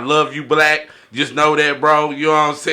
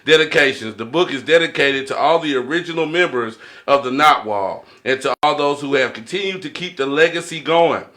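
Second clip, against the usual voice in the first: reading aloud. Shown as a demonstration. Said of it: "I gotta read the dedication to y'all".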